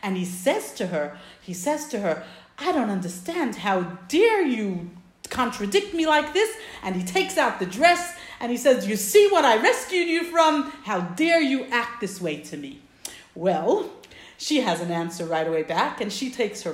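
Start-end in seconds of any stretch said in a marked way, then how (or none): 2.6-6.6 retold indignation, rising at the end; mildly heated, measured reproach; upset husband. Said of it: "he starts to get very upset". 8.9-12.8 indignant retold reproach, high and loud then dropping; storyteller's offended outburst; upset husband. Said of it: "he starts to get very upset".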